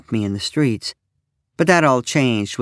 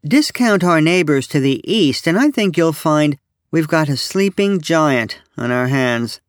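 lightly put-on pundit, pitched higher; a hint of self-important commentator, raised pitch; mock pundit; 5 semitones higher, 3 dB louder than usual. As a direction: pretend to hold forth intelligently on European affairs. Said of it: "pretending to share intelligent comments regarding".

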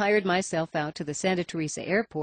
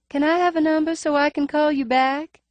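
cautious; 10 semitones higher, 6 dB louder than usual. A narrator's reading. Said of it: "said the ever-cautious Mary Jane".

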